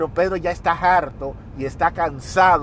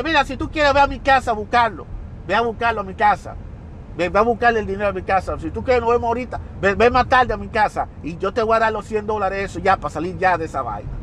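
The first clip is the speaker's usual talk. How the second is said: higher and fast, pushing harder each line; escalating angry rant; 3 semitones higher, faster than usual. Retold or imitated. Debtor snapping at his lender, escalating and fast. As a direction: rattle it off, rising in pitch and anger. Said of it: "mira cómo eso va elevando".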